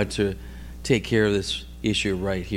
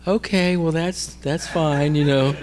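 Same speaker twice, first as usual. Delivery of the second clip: aunt's hesitant reply; 4 semitones higher, slower than usual. Retold or imitated. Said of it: "So she says".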